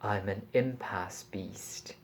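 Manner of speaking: soft unvoiced whisper. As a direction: breathe the words, barely voiced. Strange beast introduces itself.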